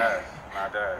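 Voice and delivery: high voice. Pretend. Nervous playful reply.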